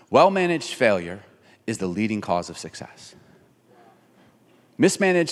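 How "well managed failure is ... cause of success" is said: spaced out with pauses for weight; slow emphatic saying. Shown as a demonstration. Pastor to congregation, paused emphasis. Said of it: "Can I say it this way?".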